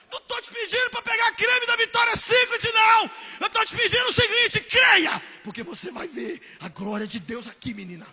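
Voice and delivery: high, loud impatient rant; loud scolding Jesus. Acted. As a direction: yell it like a fed-up teacher. (Jesus bronqueando aos gritos)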